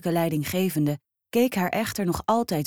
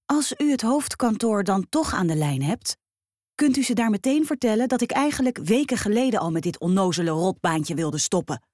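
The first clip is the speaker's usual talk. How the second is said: snapping back; 4 semitones higher than usual. Acted. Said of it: "beet ze hem toe".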